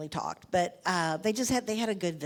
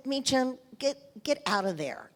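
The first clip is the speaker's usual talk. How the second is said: louder, higher call across the room; yelling; 6 semitones higher, 3 dB louder than usual. Retold or imitated. Wife yells at historian to leave the presidents alone, loud yell. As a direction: shout him out of there. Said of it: "I yelled at him".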